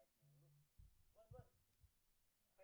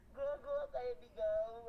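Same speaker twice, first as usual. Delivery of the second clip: slow mocking repeat; 5 semitones higher, 14 dB louder, much slower than usual. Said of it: "anjing, dibalik".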